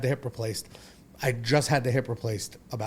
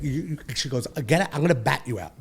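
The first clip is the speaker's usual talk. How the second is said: sharp raised threat from his mother; mother's threat; 5 semitones higher, 6 dB louder, faster than usual. Retold or imitated. Mother threatening her grown son with a bat, raised and sharp. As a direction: snap it like a furious mother. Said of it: "This is literally what she said to me".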